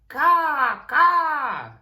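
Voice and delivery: high, loud cawing crow. Acted. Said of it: "A crow flew by".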